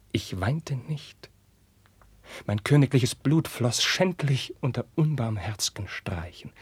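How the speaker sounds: slow whispered grief; whispered, barely voiced anguish. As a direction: hold back tears in a whisper. Carlos recalls the beating.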